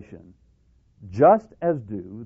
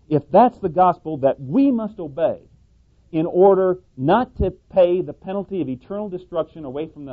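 rising preaching; 7 semitones higher, 6 dB louder than usual. Acted. Preacher builds to climax.

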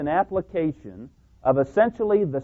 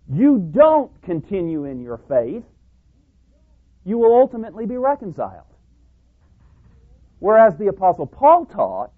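rising, louder pulpit declaration; preaching at full force; 5 semitones higher, 6 dB louder than usual. Acted. Preacher building to a loud declaration for the congregation. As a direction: press the point hard from the pulpit.

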